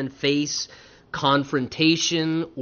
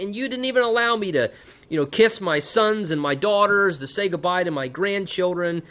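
higher-pitched aggrieved complaint, easing down; guilt-tripping Laban; 5 semitones higher than usual. Acted. Father-in-law denied goodbyes to his grandchildren, guilt-tripping. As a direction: play up the hurt grandfather a little. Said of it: "trying to lay the guilt trip on him".

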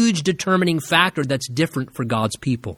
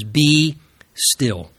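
"Be" held long, pause, then "still"; two simple words; 2 semitones lower than usual. Shown as a demonstration. Preacher gives the congregation God's two words, simply and slowly. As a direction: separate "Be" and "still", unhurried. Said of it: "very simply, two words".

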